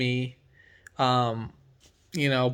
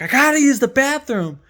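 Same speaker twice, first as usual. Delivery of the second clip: imitating the stranger; 11 semitones higher, 6 dB louder than usual. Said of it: "And then he's like".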